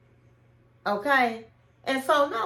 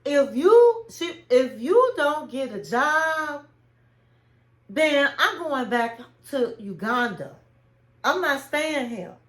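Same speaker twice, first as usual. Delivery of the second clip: sassy ultimatum; 2 semitones higher than usual. Retold or imitated. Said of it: "Her neck was rolling".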